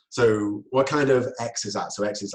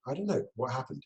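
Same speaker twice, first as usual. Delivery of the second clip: softer, uninvolved answer that doesn't join the excitement; disengaged reply; 3 semitones higher, 6 dB quieter than usual. Shown as a demonstration. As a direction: answer without matching their energy. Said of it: "You haven't joined them in, in that level".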